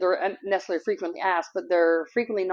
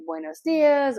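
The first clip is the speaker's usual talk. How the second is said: cheery Spanish greeting; 6 semitones higher, 4 dB louder, slower than usual. Retold or imitated. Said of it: "greet with a smile and say".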